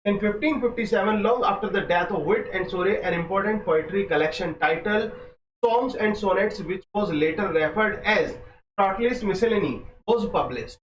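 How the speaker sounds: very slow, careful textbook reading; slow dictation reading. Acted. Teacher dictating exam notes slowly to students. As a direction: lay each phrase down for students to copy.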